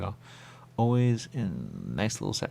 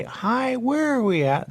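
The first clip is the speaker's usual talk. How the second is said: squeaky high greeting, much higher; high put-on voice; 5 dB louder, slower than usual. Player greets the game characters, high squeaky voice. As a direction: chirp it up high like a cartoon.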